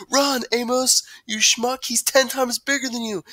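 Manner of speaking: high, loud self-mocking urgency; animated high-pitched quote; excited retelling. A narrator's reading. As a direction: act out your own panic for friends. Retelling own panic to friends.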